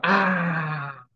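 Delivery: long open "ah"; open-mouthed, falling "ah"; demonstrated interjection. Shown as a demonstration. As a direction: show them a drawn-out "aah". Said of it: "quero que você faça".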